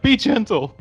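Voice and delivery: mock breathy plea. Imitating Willie from Temple of Doom, high hammed-up plea. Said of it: "where Willie was like".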